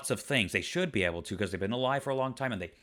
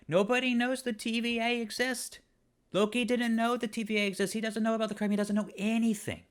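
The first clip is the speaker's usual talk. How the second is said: exasperated rant; 10 semitones higher than usual. Real, not acted. Reviewer ranting to viewers about the TVA, much higher, exasperated. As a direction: pitch jumps much higher in disbelief.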